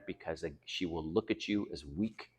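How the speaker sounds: soft, unvoiced whisper; whispered warning to the viewer. Real, not acted. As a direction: drop to a confiding whisper. Warning aside.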